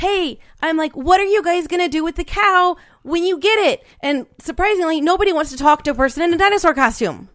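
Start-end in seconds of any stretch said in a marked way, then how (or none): 0.9-3.9 play-acted mild half-yelled shout. Retelling yelling through a fence at police officers, retelling a yell. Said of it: "I'm yelling through the fence at the police officers".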